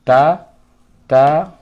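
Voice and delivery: তা said soft and loud for the class; soft তা drill. Shown as a demonstration. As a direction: demonstrate a soft তা. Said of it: "একদম নরম".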